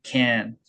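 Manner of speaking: "Can" from deep back where h is made; "Can" with an airy k from the back; deep back-placed k. Shown as a demonstration. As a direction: start "Can" deep in the throat. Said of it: "저 깊숙한 들어간 소리입니다".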